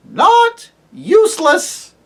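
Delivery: high, slow wailing hoot. Acted. Owl to the deaf dwarf, high wailing hoot. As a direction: hoot it out with a cry in it.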